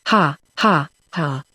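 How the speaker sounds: a short mocking "Ha, ha, ha" that drops away; hearty laugh. A narrator's reading. Jim laughing at Don on the cliff, a short mocking laugh. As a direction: laugh off Don's fear. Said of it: "cried Jim".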